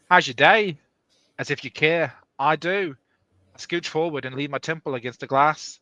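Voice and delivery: loose, unconvincing Australian; failed Australian accent. Acted. Reluctant reader performing a friend's dialogue, failed Australian accent. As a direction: try Australian and miss a little. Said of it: "that was not Australian at all".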